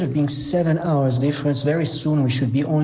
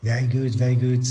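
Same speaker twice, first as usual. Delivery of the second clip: husky early-morning voice; slightly husky, tired voice. Real, not acted. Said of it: "If you hear my husky voice".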